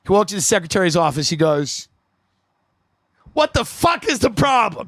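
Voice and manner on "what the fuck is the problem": higher-pitched imitation of an irate salesman; mock outburst. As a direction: imitate his exasperated outburst without more volume. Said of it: "That's the way he used to".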